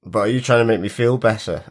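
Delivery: nasal, croaky sick voice. Real, not acted. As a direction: talk through a blocked, sore throat. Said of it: "my croaky voice".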